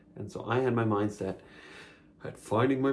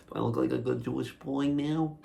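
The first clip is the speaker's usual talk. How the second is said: put-on Jewish accent; 3 semitones higher than usual. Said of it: "that accent? Was that an internalized Jewphobia accent?".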